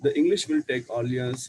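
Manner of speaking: put-on slow, careful story reading to children; slow read-aloud. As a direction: read each English word slowly for the class. Reads English story slowly aloud. (मुलांसाठी हळू इंग्रजी वाचन)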